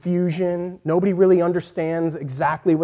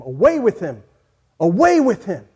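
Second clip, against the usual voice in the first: mock crowd yell, rising louder on the repeat; imitated crowd scream; 3 semitones higher, 6 dB louder than usual. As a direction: cry it out like a mob, short of a full scream. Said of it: "the people began screaming at him".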